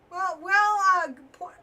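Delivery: a burp breaking into the words. Real, not acted. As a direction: talk through a burp. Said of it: "pardon me, burped".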